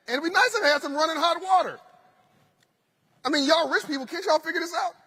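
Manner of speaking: amused retold grievance to the hotel desk; indignant complaint. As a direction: replay the exasperated guest, laughing at yourself. Complaining to front desk about room.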